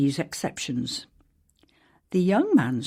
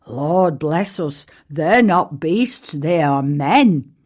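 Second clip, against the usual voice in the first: slow, louder, astonished correction; astonished exclamation; 5 dB louder, slower than usual. Acted. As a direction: spell out the shock slowly. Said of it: "cried Anthony".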